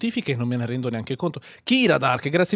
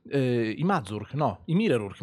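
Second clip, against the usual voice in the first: ordinary talk, nothing marked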